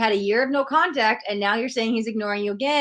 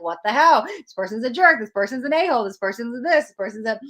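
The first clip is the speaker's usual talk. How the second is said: mock indignant rant; 3 semitones higher than usual. The ego ranting about an ex who ghosted, mock indignant. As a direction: play the hurt ego fuming, half in jest.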